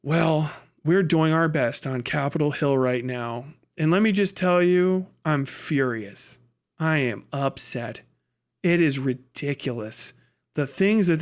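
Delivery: low, slow, put-on concerned politician; mock politician. Mocking a Democrat on Capitol Hill, low and slow.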